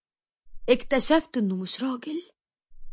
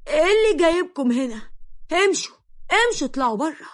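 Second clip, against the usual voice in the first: raised, louder, wild outburst at the family; hysterical yell; 5 semitones higher, 3 dB louder than usual. A narrator's reading. Bride shouting at both families to get out. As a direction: drive the visitors out in a frenzy. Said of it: "وضحكت بشكل هستيري وقالت".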